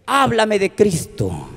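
put-on slow, understated drunk request; lightly voiced drunk man asking; drunk friend. Drunk friend asks the preacher about Christ, slow request. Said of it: "viene totalmente tomado por el alcohol".

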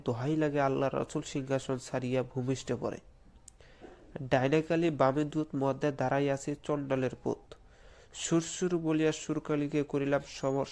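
measured, deliberate chant of the mantra; careful mantra recital. Shown as a demonstration. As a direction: recite it properly this time, word by word. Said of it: "এবারকার ভালো করে শুনবেন".

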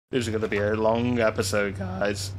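real accidental voice crack; voice breaking. Real, not acted. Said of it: "Oh, me voice break?".

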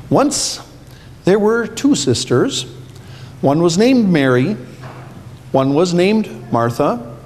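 put-on reading to children. A narrator's reading. Pastor reads Bible story to kids.

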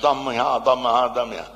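heavy Tuscan with softened consonants; thick Tuscan. Retold or imitated. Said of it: "Cosa vuol dire".

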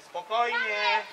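high, slow, stretched-out call; drawn-out call. Real, not acted. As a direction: stretch it out high across the pitch. Coach calls out to players. (przeciągłe, wysokie wołanie)

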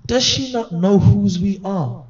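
mock outrage. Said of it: "He said".

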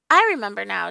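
loud burst of sudden recall; shouting. A narrator's reading. Dan suddenly remembering the magic, shouting. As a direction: shout it out as it comes back to you. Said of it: "Dan shouted".

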